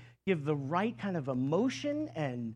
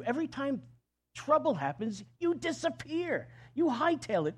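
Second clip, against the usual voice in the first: bold complaint to God; 9 semitones higher than usual. Retold or imitated. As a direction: shake God awake, indignant. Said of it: "they basically say to God".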